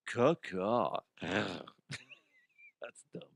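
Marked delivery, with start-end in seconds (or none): 0.1-1.0 dirty bird call. Pretend. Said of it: "what does a dirty bird sound like".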